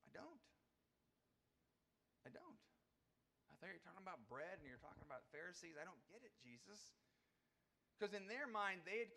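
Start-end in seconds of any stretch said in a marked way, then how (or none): 0.0-6.9 sheepish admission. Pretend. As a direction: admit you're lost, a little ashamed. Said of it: "my response is".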